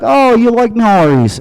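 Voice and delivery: put-on high British accent of a famous singer. The singer asking the comic about Maharis, British accent. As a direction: squeak it out as a Liverpool singer. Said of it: "He's like".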